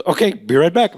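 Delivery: slightly high put-on waiter voice; lightly hammed-up waiter sign-off; waiter impression. Waiter leaving the table, lightly put-on high voice. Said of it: "And he goes".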